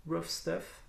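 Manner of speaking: English title in a French accent. Real, not acted. Vlogger showing viewers a comic title, French-accented English. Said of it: "mon magnifique accent anglais".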